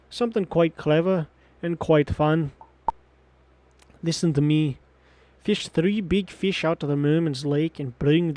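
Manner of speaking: lightly put-on Scottish-British chief voice; a loose blend of Scottish and British; half Scottish, half British. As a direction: play a village chief with a wandering British-Scottish accent. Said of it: "like, half Scottish, half British".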